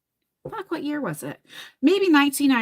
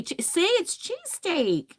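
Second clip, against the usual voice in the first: playful insistence; 7 semitones higher, slower than usual. Real, not acted. Playfully instructing viewers on the word.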